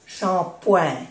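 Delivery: shampoing with a nasal oin ending; French pronunciation. Shown as a demonstration. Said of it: "Esto se pronuncia oin". (shampoing con oin nasal)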